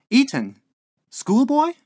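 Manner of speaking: loud query leaping very high; incredulous landlady. A narrator's reading. Landlady interrupting lodger's memory, incredulous. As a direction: question each word in genteel disbelief. Landlady queries Billy's recollection.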